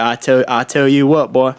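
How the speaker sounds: put-on rural hick accent; folksy American hick accent. Shown as a demonstration. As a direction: talk like a country hick. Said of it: "I just call it hick".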